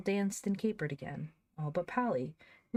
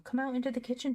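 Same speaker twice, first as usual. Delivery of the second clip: excited call; 8 semitones higher, faster than usual. A narrator's reading. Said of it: "cried Joel".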